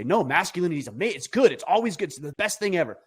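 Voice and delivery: hammed-up rave that masculinity is great; a touch of mock enthusiasm; mock gushing fan. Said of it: "And other people say".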